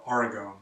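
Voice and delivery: "Oregon" as AR-ih-gone; full O in the last syllable of "Oregon"; alternative local pronunciation. Shown as a demonstration. Teacher roughly showing another variant, "Oregon" ending in "gone". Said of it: "or Oregon, something like that".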